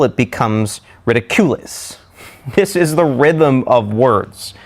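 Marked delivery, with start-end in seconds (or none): 1.0-2.0 ridiculous misstressed as ridi-CU-lous; stress on wrong syllable. Shown as a demonstration. Teacher joking about wrong stress, ridi-CU-lous. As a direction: put the weight on "cu" in "ridiculous". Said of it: "put the stress on the wrong syllable".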